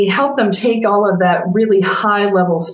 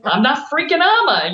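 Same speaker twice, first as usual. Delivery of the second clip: mock scream; 7 semitones higher than usual. Client protesting being told to be herself, mock indignant scream. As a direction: imitate a client's yell, pitched up. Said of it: "they're not screaming it".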